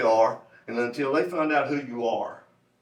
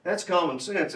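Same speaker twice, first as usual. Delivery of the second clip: "common sense" repeated with higher, deliberate emphasis; emphatic; 4 semitones higher than usual. Real, not acted. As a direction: underline "common sense" for the audience. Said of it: "I want to emphasize the word common sense".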